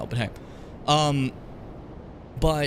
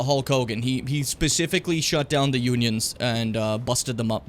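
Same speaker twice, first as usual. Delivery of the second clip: ordinary talk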